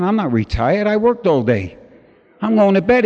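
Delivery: irritated protest. Retold or imitated. Arguing with sponsor on phone.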